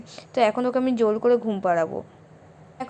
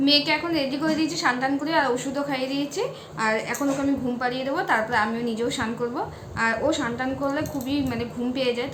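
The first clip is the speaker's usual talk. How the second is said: soft, fast hushed talk; 6 dB quieter, faster than usual. Real, not acted. Putting baby to sleep.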